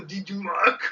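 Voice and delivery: Arnold Schwarzenegger style announcing. Retold or imitated. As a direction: boom it out like Arnold. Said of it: "That sound like Arnold when I'm doing it".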